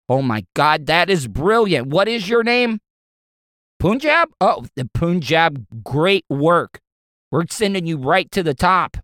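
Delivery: hammed-up excited exec, lightly done; delighted boss. Boss praising the nerd for his update idea, mock delighted.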